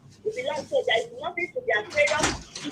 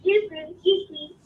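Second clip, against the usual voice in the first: name repeated louder and clearer; 4 semitones higher, 6 dB louder, slower than usual. Real, not acted. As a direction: say it again, louder this time.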